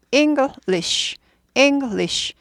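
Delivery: English as ENG, lish, two separate beats; two-syllable English. Shown as a demonstration. Teacher modelling for learners, two-syllable English. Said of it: "이 음절이에요".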